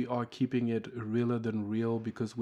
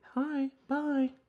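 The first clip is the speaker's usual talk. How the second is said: fake-friendly voice, very high-pitched. Mimicking fake-community greetings, in a high-pitched voice. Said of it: "High-pitched, lots of high-pitched voices".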